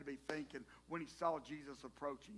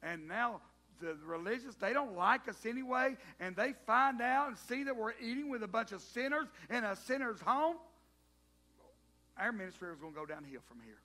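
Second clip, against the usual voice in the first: louder, worried complaining; comic fretting; 2 semitones higher, 6 dB louder than usual. Acted. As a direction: fret about your image, half joking. Disciples fretting about their reputation.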